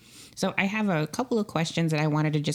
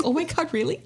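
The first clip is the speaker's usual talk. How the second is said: mock valley girl gasp; 12 semitones higher than usual. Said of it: "and I'm like".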